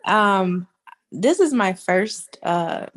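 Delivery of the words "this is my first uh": congested, blocked-nose voice; stuffy nose. Real, not acted. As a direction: speak through a stuffy nose. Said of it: "so I sound a little under the weather".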